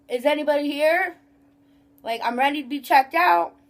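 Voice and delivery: mildly demanding mock customer; rude customer. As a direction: lightly imitate a rude shopper wanting service. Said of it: "the rude people like that".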